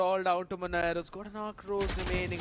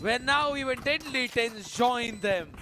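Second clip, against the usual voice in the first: excited play-by-play; 5 semitones higher than usual. Real, not acted. Round-ending kill called.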